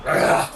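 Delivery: short rough snarl of effort; snarling grunt. Acted. Game master swats the player away, snarling grunt. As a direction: grunt as you swat someone off.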